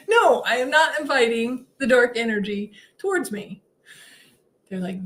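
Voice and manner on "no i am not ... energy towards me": higher-pitched retold protest; indignant refusal. Told to invite dark energy in, high indignant refusal. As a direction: refuse firmly, starting high on the no. Refuses team's request, comic retelling.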